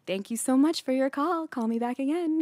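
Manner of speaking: lightly sweet customer-service voice; phone sweetness. Retold or imitated. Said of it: "it's awkward being like".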